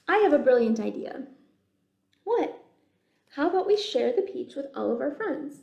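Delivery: chatty bug voices. Acted. Bugs plan to share.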